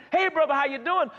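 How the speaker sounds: religious greeting. Retold or imitated. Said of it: "responding religious".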